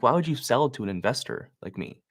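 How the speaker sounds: "investor" said with a little extra emphasis; stress on investor. Shown as a demonstration. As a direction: lean lightly on "investor". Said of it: "I emphasize the word investor".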